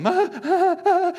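hammed-up child's panicked wail, high and loud; mock freak-out. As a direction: wail like a kid faking terror. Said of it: "seven-year-old is starting to freak out".

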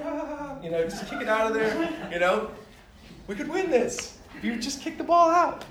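high, loud pleading call; hammed-up coach begging a kick; urging sideline yell. Coach imitating himself urging the girls to kick the ball out, high and loud.

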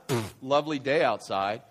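loud, low sarcastic remark; scoff, then drop the pitch dryly; mock-pleasant cynical comment; cynical sarcasm. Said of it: "when you make a cynical comment".

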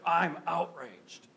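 mock whisper. People voicing their anger.

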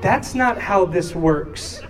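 slow, measured explanation; slow correction. Retold or imitated. Parents correcting sobbing daughter, slow measured reply. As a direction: let it land slowly for a child.

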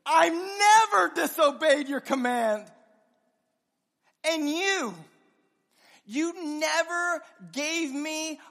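the wronged son shouting his grievance; resentful older brother. Acted. Older brother's bitter complaint.

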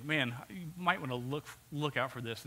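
soft, friendly word of caution; encouraging. Acted. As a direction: nudge them gently, as a friend. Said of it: "it's encouraging".

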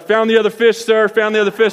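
eager call-out. Retold or imitated. Caught burying fish, calls out.

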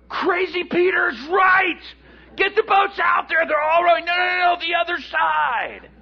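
high, loud clamour of calls; frantic excitement. Acted. Fishermen at shore rushing to boats, excited yelling. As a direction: shout over each other, scrambling.

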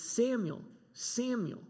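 insistent repeated calling; urgent double call. Shown as a demonstration. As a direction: call the name twice, urgently. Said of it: "two times".

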